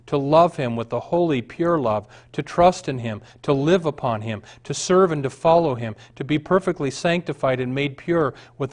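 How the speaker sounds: put-on a fervent reading of an old testimony, building in force; earnest reading. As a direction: read it like a rapt confession. Reads Edwards' account aloud.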